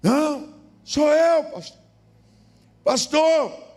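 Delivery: high, loud desperate begging; a desperate man shouting his apology up to the window; pleading shout. Retold or imitated. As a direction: cry out for forgiveness at the door. Man begging at door at night.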